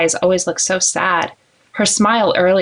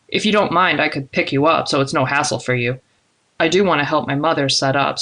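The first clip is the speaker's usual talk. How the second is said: lightly voiced man, helpful; 3 semitones lower than usual. Man offers to pick her up for the shower, lightly voiced and helpful. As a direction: slightly lower male character, easygoing. Narrator voices Zadok giving arrangements.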